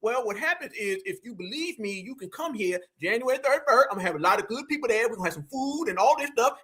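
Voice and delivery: mild office-secretary impression. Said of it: "now you sounding like a secretary".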